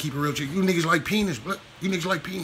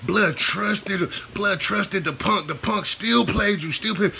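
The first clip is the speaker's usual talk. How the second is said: slow dramatic drawl; 4 semitones higher, slower than usual. Acted. Drawn-out dramatic retelling of betrayal.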